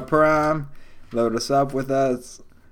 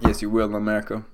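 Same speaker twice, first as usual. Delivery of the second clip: talking between sips of coffee; sipping coffee; 2 semitones lower than usual. Real, not acted. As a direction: speak with coffee at your lips. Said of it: "I'm sorry, I'm sipping coffee".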